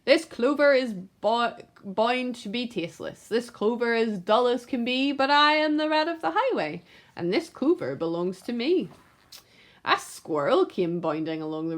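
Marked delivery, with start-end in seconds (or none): 0.1-8.9 lightly voiced robber rat, sneering; a hint of a greedy rat bandit; rat's scornful order. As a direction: sneer at the clover. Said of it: "but he ordered".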